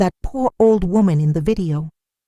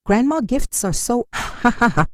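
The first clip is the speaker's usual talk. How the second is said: mocking laugh; 8 semitones higher than usual. A narrator's reading. Friend laughing at party.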